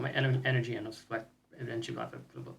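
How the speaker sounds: talking with a burned tongue. Real, not acted. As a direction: mouth stinging from spicy peppers. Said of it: "The spice burned my tongue out".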